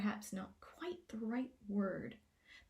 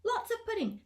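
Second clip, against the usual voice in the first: demanding shout; 10 semitones higher, 8 dB louder than usual. A narrator's reading. Gnome king demanding a feast from Twig, loud greedy shout. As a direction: whine for pudding like a spoiled child. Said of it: "As Glimfinkel shouted".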